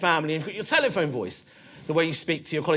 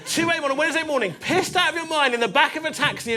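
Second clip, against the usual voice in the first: scolding inner conscience; 5 semitones higher than usual. Retold or imitated. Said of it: "the Muslim part of my brain kicked in saying".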